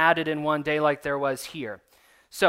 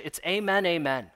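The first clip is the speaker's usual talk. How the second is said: breezy, offhand. Shown as a demonstration. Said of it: "we kinda go, breeze over it".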